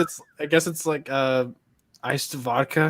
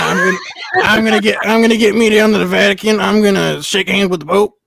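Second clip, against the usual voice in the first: louder southern hick voice; 4 dB louder than usual. Retold or imitated. Friend playing a rowdy Southern drinker headed to the Vatican, in a loud hick voice. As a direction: play a rowdy Southern good ol' boy.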